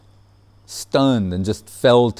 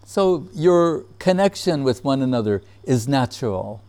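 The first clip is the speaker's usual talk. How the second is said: lightly imitated humorous guru; a hint of the teacher's measured delivery; Guru Maharaj; 4 semitones higher than usual. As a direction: quote his gentle joke, pitch lifted at the start. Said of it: "That's the way he said it".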